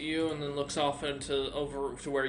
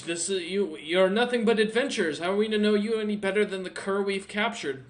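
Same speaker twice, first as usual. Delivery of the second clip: loud, higher angry refusal; guard angrily refusing entry to the castle; indignant guard; 6 semitones higher, 9 dB louder than usual. Acted. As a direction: bark the refusal at the strangers.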